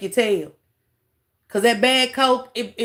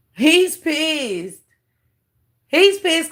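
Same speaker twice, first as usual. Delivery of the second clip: raised, louder scoff at him; loud mocking jab; 6 semitones higher, 4 dB louder, much slower than usual. Real, not acted. Streamer loudly mocking the angry speaker, raised jeer.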